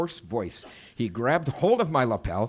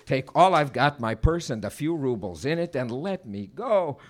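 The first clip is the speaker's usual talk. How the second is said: a touch of frightened pleading; 4 semitones higher, 3 dB louder than usual. Acted. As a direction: beg them to let you go. Victim pleads with robbers.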